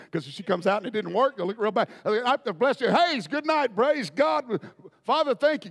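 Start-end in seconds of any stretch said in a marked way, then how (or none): 2.9-5.7 higher, rushed sign-off blessing; rushing out a blessing to close the service; hurried dismissal. Retold or imitated. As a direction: wrap it up fast, nervous. Hurrying to end the service.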